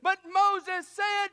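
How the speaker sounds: a preacher building to a climax; preaching. Acted. Preacher opens with rising sermon.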